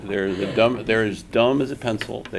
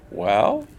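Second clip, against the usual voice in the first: slow, higher Japanese accent imitation; 8 semitones higher, 5 dB louder, much slower than usual. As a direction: explain slowly in a Japanese accent. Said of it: "imitating an accent".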